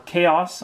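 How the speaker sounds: "Chaos" said the speaker's own way; own pronunciation. Shown as a demonstration. Correcting the pack name for viewers, own pronunciation of "Chaos". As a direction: offer the personal variant of "Chaos". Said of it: "I call it Chaos".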